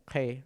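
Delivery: Q read on its own, without H, as "G"; plain Q sound. Shown as a demonstration. Teacher showing learners how lone Q is read, plain Q sound. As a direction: say "G" as a lone Quechua Q, no breathy H. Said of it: "Q solito se lee así".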